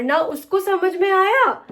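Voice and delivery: "आया" dragged slow and high, falling; stumbling over "ना उसको समझ में आया"; a vlogger flubbing her line, drawn out; fumbled take. Shown as a demonstration. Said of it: "किस तरीके से कर रही हूँ मैं".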